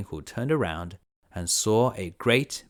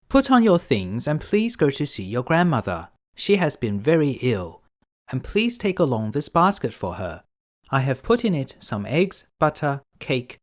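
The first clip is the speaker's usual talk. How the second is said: higher, louder motherly voice; a caring mother sending her daughter off; mother's voice; 5 semitones higher, 4 dB louder than usual. Acted. Mother instructing her daughter, higher and louder. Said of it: "mother said".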